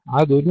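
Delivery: عدل with a bounced D; short bounce after D in عدل; qalqala on dal. Shown as a demonstration. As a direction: echo the dal in عدل before the lam. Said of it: "هنا القلقلة".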